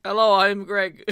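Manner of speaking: slow, loud mock Southern belle; hammy Southern accent through a laugh; Rogue voice. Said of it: "try to be rogue".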